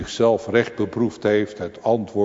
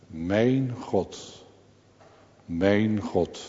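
vol verwondering; much slower than usual. Retold or imitated. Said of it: "die vraagt vol verwondering". (zacht en vol verwondering)

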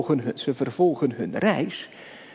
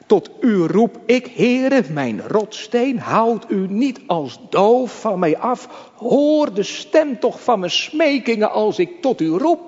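crying out in prayer; 4 semitones higher, 5 dB louder than usual. Retold or imitated. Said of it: "hij zegt het in Psalm achtentwintig".

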